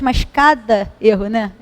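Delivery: ordinary talk, nothing marked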